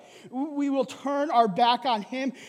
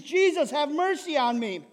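raised, pleading call; crying out; 4 semitones higher than usual. Acted. Blind beggar keeps begging Jesus for mercy, crying out. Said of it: "continued to cry out to Jesus".

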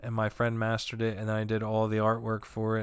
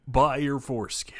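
whispered punchline; 3 semitones higher, 3 dB louder than usual. Pretend. Mock ride announcement punchline.

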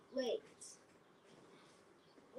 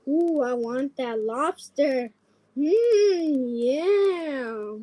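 talking plush toy; 5 dB louder, much slower than usual. Pretend. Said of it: "my teddy says".

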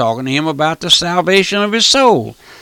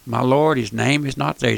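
a hint of a hushed angel, softer; hushed angel report; 4 dB quieter than usual. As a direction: report it quietly and gravely. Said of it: "he'll come back and he'll say".

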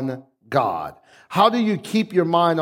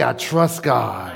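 mean every word of it, slow and firm; slow, earnest declaration of trust; with conviction; 6 semitones lower, slower than usual. Shown as a demonstration. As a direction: say it like you truly mean it. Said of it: "Now say it like you mean it".

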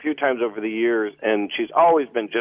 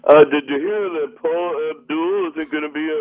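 higher-pitched fake excitement over TV gossip; snotty mock enthusiasm; 4 semitones higher, 3 dB louder than usual. Critic mocking supposedly big TV news, snotty fake enthusiasm. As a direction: gush sarcastically, as if this were huge news. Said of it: "I just have to kind of be snotty about it".

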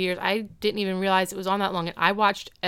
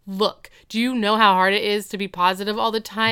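louder, exasperated retold rant; mock freak-out; 5 dB louder, faster than usual. Topanga snaps at being always positive, mock rant. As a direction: push it out like pent-up frustration. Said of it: "She freaks out".

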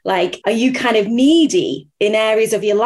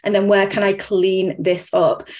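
calm self-questioning; slower than usual. Shown as a demonstration. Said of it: "really calmly".

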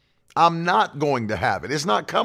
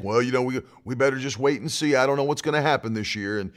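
imitating everybody else's talk; 3 semitones lower than usual. Preacher mimicking what everybody else is saying, low hedging mock. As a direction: hedge along like a resigned doomsayer. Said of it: "I don't just say what everybody else is saying".

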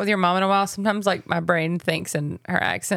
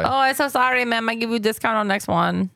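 bad Pakistani accent that slips into Chinese; botched Pakistani accent. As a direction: attempt a Pakistani shopkeeper's accent, badly. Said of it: "He just went Chinese".

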